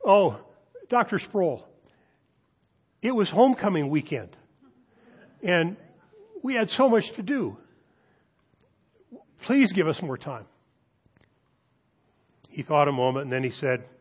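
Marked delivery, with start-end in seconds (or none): 0.0-10.4 high, whiny plea for more time; whining students. Retold or imitated. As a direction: whine an excuse upward. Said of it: "Fifty said".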